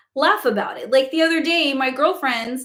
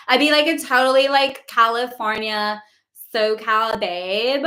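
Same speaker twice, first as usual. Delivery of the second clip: put-on Valley Girl accent. Shown as a demonstration. Host demonstrating impersonations for viewers, Valley Girl accent. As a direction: do a totally Californian Valley Girl. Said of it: "like, Valley Girl the entire time".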